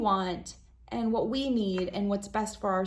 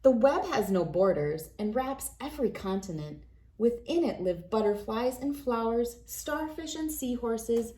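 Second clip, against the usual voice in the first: put-on reading to children. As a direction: read it like a bedtime picture book for kids. Reads picture book to children.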